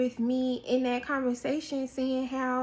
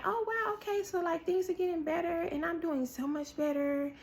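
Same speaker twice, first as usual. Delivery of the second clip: self-deluded musing; 4 semitones higher, 3 dB quieter than usual. Retold or imitated. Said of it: "you will be thinking that".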